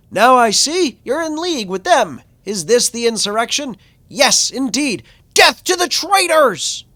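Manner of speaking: high, loud whiny zealot; whiny villain voice. Acted. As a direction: shriek it like a paranoid fanatic. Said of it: "Why do you give him that voice?".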